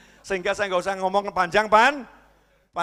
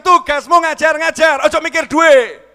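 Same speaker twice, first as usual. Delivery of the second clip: loud, slow, higher commanding shout; booming divine command; 10 semitones higher, 13 dB louder than usual. Retold or imitated. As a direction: thunder it down like a stern master. Voicing God's answer. (suara Tuhan menggelegar, lambat dan keras)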